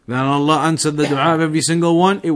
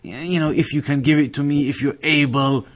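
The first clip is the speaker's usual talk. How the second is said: very tentatively. Shown as a demonstration. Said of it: "very tentatively".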